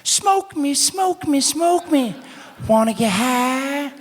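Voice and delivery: very high, creepy sing-song whisper of a talking joint; hammed-up weed calling out to kids; tempting joint. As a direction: lure them in slowly, teasing. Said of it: "It'll be like".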